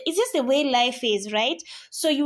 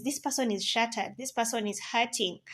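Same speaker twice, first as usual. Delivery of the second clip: soft and tender; 6 dB quieter than usual. Real, not acted. Tender point about heartbreak.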